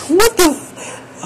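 high, slow stunned disbelief. Real, not acted. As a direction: drag it out in shock. Stunned by chat.

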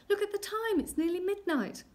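very high, loud alarm; panicked urgency. Acted. Queen fears midnight is near, panicking. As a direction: cry out as time runs out.

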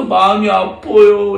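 slow, mildly aching voice; understated mimed heartache; sad. Acted. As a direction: stretch it out with acted hurt. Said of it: "이렇게 예수님이 슬퍼하세요".

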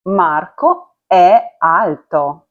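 Marco è alto, slow with a clear stressed è; careful Italian è; slow Italian demo. Shown as a demonstration. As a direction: give è its full weight, slowly. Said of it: "е з наголосом".

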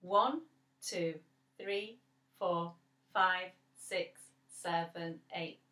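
even counted beats; counting the beats. Shown as a demonstration. Teacher counts the eight beats aloud for the children. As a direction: count it out steadily. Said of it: "let's count them".

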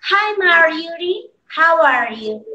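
slow, careful "Hi, Marjorie", dropping in pitch on "how are you"; model pronunciation. Shown as a demonstration. Teacher reading the first dialogue line for students, model pronunciation. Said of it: "la pronunciación que yo haga".

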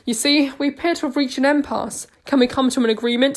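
hammy stage voice, loud and showy; overacting theatre actor. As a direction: play it big to the crowd. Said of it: "like an overacting theatre actor playing to a crowd".

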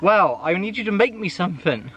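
a hint of the lordly employer; posh voice. Lord commissioning his carpenter, lightly posh voice. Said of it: "It's my posh voice".

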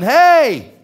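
loud, high shout of hey; yelling. Retold or imitated. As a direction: holler to get someone inside to hear. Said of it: "he starts yelling".

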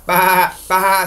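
spoken "Bah, bah"; lamb bleat. Acted. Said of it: "said little Lamb".

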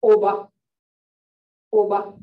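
loud oba with a pure, punched o; O with attitude. Shown as a demonstration. Teacher modelling the o for learners, forceful oba. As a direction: hit the first vowel of oba hard, no glide. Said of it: "this one's got an attitude".

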